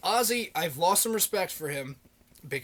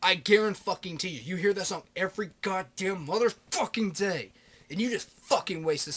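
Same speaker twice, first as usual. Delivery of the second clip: louder, higher exasperated rant at dumb callers; real mad rant; 4 semitones higher, 4 dB louder than usual. Real, not acted. Ranting to viewers about a radio caller, heated and loud. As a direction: vent your anger at the request hour. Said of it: "I get a little fucking mad about that shit".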